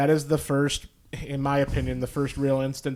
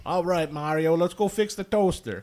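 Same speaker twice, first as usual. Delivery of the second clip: light Brooklyn Luigi voice; a touch of Brooklyn plumber; Brooklyn accent; 3 semitones higher than usual. Retold or imitated. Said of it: "a Brooklyn accent".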